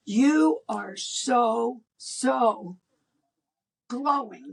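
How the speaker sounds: whispered, slow and awed; hushed awe. Retold or imitated. Couple to the woman, whispered slow awe. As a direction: breathe the word glowing in wonder. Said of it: "And it's like".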